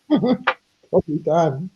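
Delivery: drawled slowly, "Probably Dan" teased; slow teasing drawl. Shown as a demonstration. Repeating her joke about Dan, slow teasing drawl.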